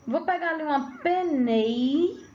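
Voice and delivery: "penei" cut short, ending on the nei; clipped penei. Shown as a demonstration. Teacher shows how students say "penei". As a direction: say "uma penei" stressing the final nei. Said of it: "Quando você fala".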